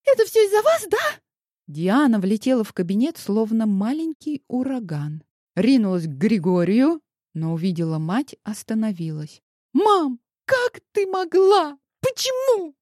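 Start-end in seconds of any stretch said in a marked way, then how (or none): 0.0-1.2 put-on much higher, louder tearful girl; a rattled daughter bursting in; high, tearful accusing girl voice; upset teenage girl. A narrator's reading. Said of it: "взъерошенную, заплаканную дочь Елены". 9.7-12.8 put-on much higher, slow, pleading girl; a hurt teen demanding answers; high, pained girlish reproach; upset daughter. A narrator's reading. Daughter confronts her mother.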